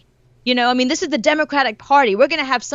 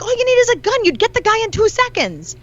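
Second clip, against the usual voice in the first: much higher, put-on voice, louder; mock exasperation; 12 semitones higher, 3 dB louder than usual. Yelling at British TV cops in a high mock voice. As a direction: scoff at the TV cops, pitched way up. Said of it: "I'm like".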